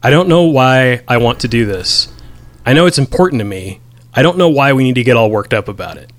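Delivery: rattled off fast, back and forth; read out quickly. Retold or imitated. Reading out Mark Duplass's rapid lines, quick and wavering. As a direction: rush through the lines like he can't decide. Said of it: "very quickly".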